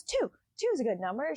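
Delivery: high, rushed panicky counting; mock panic. Feyre panicking over the levers, high mock panic. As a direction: squeak it out like she's losing it. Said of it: "she's panicking".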